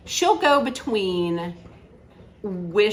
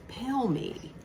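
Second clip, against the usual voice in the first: soft, higher imitation of her; very different voice; 4 semitones higher, 9 dB quieter than usual. Imitating the woman's plea from bed, soft and higher. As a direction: imitate a small, hushed, higher voice. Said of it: "in a very different voice".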